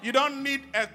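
loud, high, fervent call to praise; preaching at full force. Acted. Preacher leading the congregation in praise, full-force preaching. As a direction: rouse the church, shout it out.

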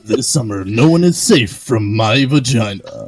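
movie trailer voice. Acted. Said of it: "You do the movie voice better".

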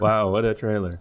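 impression of the helicopter pilot. Shown as a demonstration. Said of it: "Let me say it like the helicopter pilot".

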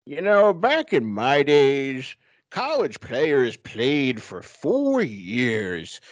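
put-on slow, rambling old-timer voice; old man voice. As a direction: grumble like a grandpa remembering. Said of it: "That's your old man voice?".

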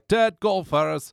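slow, drawn-out attempt at a Scottish accent; a shaky try at Willie's Scottish burr; a failed Scottish accent, stretched out slowly. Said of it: "I cannot do a Scottish accent".

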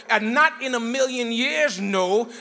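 slow, loud emphatic refusal; hard no. Shown as a demonstration. Preacher showing the congregation a hard no, slow and loud. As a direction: drag it out and shut it down. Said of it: "give a hard no".

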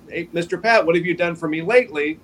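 a light New York accent, imitating Tom; a hint of Tom's New York twang as he teases. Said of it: "Tom would say in his New York accent".

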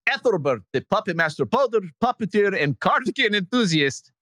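lightly put-on Estonian accent, laughing through it; bad Estonian accent. Host reading an Estonian fan's email in a mock Estonian accent. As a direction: read the fan letter in a half-hearted Estonian accent. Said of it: "with my worst Estonian accent".

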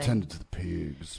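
slow, lightly put-on Southern drawl; a hint of a rural farmer. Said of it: "With the other accents".

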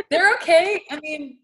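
strained through a burning mouth; mouth burning from spicy food. Real, not acted. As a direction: talk while the chili burns. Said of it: "feels like there's a fire in my mouth".

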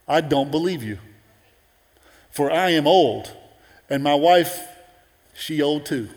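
a hint of a skeptical old man grumbling; mock doubting old man. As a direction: scoff at the angel, half laughing. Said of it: "He said it real nicely".

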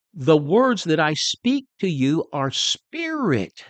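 words drawn out slowly, leaning on "words"; slow solemn reading. Shown as a demonstration. Preacher reading scripture slowly to the congregation. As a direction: read it slow and weighty.

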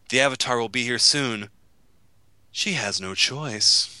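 mustache twirling villain. Retold or imitated. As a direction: ham up a cartoon bad guy threat. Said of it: "he gives this line delivery that I'm gonna exaggerate".

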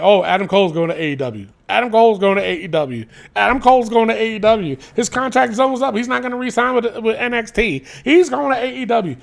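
fast mock Southern gossip; mock country accent. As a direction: rattle off the rumor like a gossiping hick. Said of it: "Why do I always do a country accent?".

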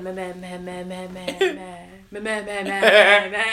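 stuck repeating one word in bursts; imitated stutter. Mimicking Tommy's stuttering friend, word repeated over and over. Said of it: "used to stutter real bad".

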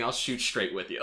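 chuckling through the line; laughing quote. Retold or imitated. Podcaster quotes Costner's line to her cohost, laughing through it. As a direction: quote it while cracking up. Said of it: "the idea of him saying".

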